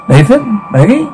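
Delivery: high questioning calls; searching call. Acted. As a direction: call each name high, looking for them. Calling for missing family.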